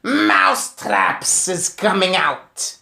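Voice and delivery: slow, loud witch's proclamation; loud shout. Acted. Witch leader shouting her plan to the crowd, slow and loud. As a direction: announce it like a triumphant witch. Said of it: "raised her voice louder than ever and shouted".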